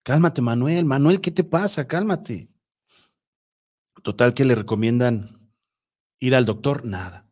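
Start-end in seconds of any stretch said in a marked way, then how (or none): 0.0-2.5 higher-pitched imitation of a crying wife; retold tearful plea. Storyteller voicing wife calming her husband, mock tearful plea. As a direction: plead mildly, as if upset, without real sobs. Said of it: "la señora Rocío llorando".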